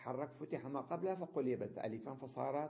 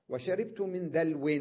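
وشربت من دلو said louder and higher; emphatic example; 5 semitones higher, 7 dB louder than usual. Shown as a demonstration. Teacher calling out the example to the class, emphatic. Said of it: "الواو متحركة بكسرة".

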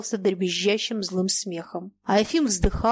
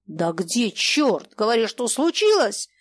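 put-on a touch of an angry old man's shout; slower than usual. Old Mayakin shouting at the captain, mildly angry. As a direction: demand it angrily. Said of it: "гневно закричал старик".

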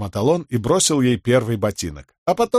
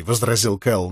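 usual speaking voice

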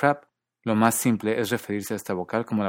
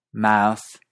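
Australian accent; 6 dB louder than usual. Shown as a demonstration. Teacher recapping five accents, Australian fronted MOUTH. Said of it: "en partes de Australia".

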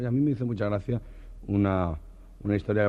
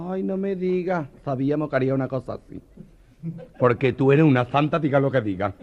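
higher camp gossip; 4 semitones higher, 4 dB louder than usual. Acted. The friends gushing over the procession, higher and camp. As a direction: gush like the girls.

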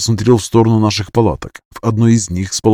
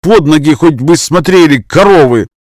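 loud, higher angry snap; angry outburst; 6 semitones higher, 6 dB louder than usual. A narrator's reading. Max kneed again, angrily yells at the girls. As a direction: yell after being kneed again. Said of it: "Макс снова получил коленом в нос".

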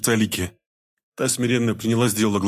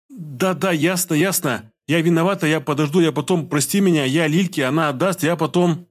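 much higher, tumbling apologetic words; frightened babbling; 6 semitones higher than usual. A narrator's reading. Scared wife babbles apologies leaving the room. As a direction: gabble apologies while backing away. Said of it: "Опять сбивчиво и быстро начала тараторить".

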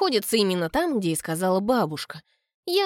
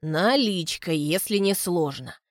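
smiling; 2 semitones lower than usual. Acted. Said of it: "говорит колдунья с улыбкой".

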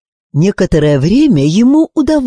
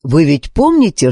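ordinary delivery

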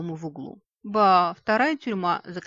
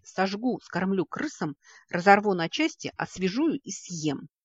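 furious threats; 3 semitones higher, 3 dB louder than usual. Acted. Tvan rants at his enemies, building rage. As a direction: spit out each threat, building fury, slowing on the last.

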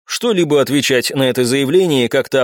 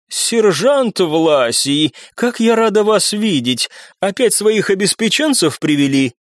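languid, slow, higher sultry voice; femme fatale; 6 semitones higher, slower than usual. A narrator's reading. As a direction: draw it out, teasing and sultry. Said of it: "томным голосом произнесла". (томная роковая женщина)

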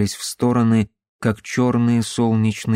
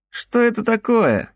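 startled; 11 semitones higher than usual. Acted. Bjorn recoils, startled.

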